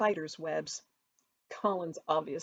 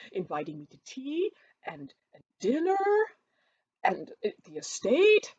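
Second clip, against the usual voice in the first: louder, fawning; gushing Collins; 8 semitones higher, 6 dB louder than usual. A narrator's reading. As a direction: flatter effusively.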